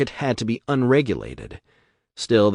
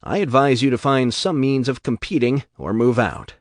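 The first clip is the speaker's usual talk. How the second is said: Ryan lecturing; 4 semitones higher, 5 dB louder than usual. Acted.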